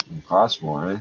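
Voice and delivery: low, "costs" leaned on, rising on "eh"; sarcastic retort. Real, not acted. Ranting vlogger mocks bar owners' excuse, sarcastic. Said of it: "How often do you replace shattered glass?".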